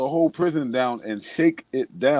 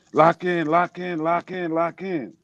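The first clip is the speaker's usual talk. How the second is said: higher-pitched mock guard yell; retold yelling; 5 semitones higher, slower than usual. Prison guards order inmates back to cells, mock yelling. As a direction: call out a repeated order, not at full volume. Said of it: "the guards start yelling".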